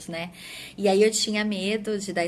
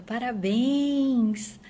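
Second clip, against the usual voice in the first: mildly louder, slow drawn-out "Parabéns"; retold shout; 4 semitones higher, 4 dB louder, much slower than usual. Cousin shouting good news over the phone, mock yell. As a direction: stretch out the congratulations like a cousin calling down the phone. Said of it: "a minha prima gritou do outro lado".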